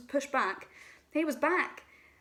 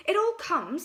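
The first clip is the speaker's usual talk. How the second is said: higher, louder cross reply; cross Pooh; 8 semitones higher, 5 dB louder than usual. A narrator's reading. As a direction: snap back at Rabbit. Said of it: "said Pooh crossly".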